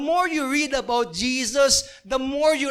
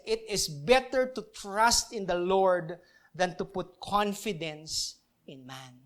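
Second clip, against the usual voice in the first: slow, careful scripture reading; slow reading of the verse; 3 semitones lower, slower than usual. Shown as a demonstration. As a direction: read it out slowly, word by word. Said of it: "It says". (dahan-dahang pagbasa ng talata)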